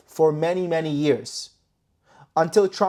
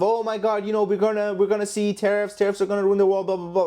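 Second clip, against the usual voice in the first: higher-pitched doomsayer rattling on; mock panic; 3 semitones higher than usual. Trader parodies reactions to the tariff news, mock panic. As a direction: parody a worried market watcher.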